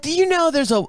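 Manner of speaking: high-pitched mock British bartender; Scottish-turned-British accent. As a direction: imitate a Scottish woman, sounding British. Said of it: "it's gonna sound British, I know".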